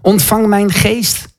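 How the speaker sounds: slow, drawn-out cry to Jesus; calling out. Retold or imitated. Stefanus calls on Jesus while being stoned, calling out. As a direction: call out slowly, solemnly pleading. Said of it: "roept hij Jezus aan en zegt".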